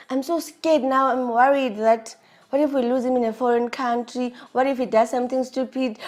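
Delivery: mildly anxious, spilling out what-ifs; retold worry. Wife fears losing husband abroad, mildly worried. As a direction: relive the worry, pressing each fear forward. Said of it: "Now I'm scared. I'm like".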